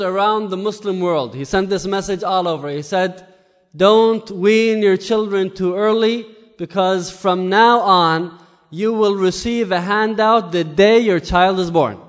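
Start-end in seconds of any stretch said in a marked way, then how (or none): 3.7-12.0 louder, slow official announcement; proclaiming a decree. Retold or imitated. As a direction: read it out like a royal order. Caliph's public decree to mothers.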